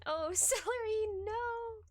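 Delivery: high laughing no; laughing cry. Real, not acted. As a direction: laugh out the name in delight. Laughing at chat.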